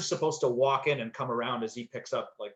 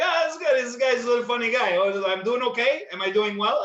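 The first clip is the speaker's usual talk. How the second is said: higher and louder, tickled and amused; delighted, booming chuckle through the words; laughing old pro; 9 semitones higher, 7 dB louder than usual. Retold or imitated. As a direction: mimic a veteran laughing at a joke. Caan laughing, teasing the actor.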